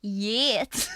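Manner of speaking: "Yet" with a drawn-out eh; Scottish YET. Shown as a demonstration. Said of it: "yet into yet".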